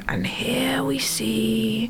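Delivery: hushed, very slow nature-documentary narrator; slow, quiet wildlife commentary impression; David Attenborough. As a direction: narrate softly, drawing out every word. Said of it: "David Attenborough".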